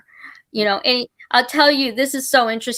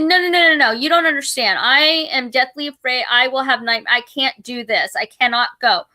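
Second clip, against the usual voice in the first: pleading refusal. Retold or imitated. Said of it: "I said".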